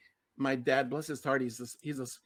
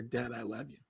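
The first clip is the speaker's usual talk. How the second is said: soft, hushed retold whisper; 4 semitones lower, 7 dB quieter than usual. Telling his father, hushed retold whisper in his ear. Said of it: "We're gonna whisper in my ear".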